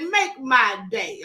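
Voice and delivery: slow, lightly gruff Dirty Harry quote; a hint of Clint Eastwood menace. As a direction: drawl it out like a tough cop. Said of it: "like Dirty Harry said".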